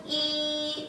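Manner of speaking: 이 held long on a high level tone; original first tone. Shown as a demonstration. Teacher showing the unchanged sound of Chinese one, 이 held level. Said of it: "그대로 발음해줍니다".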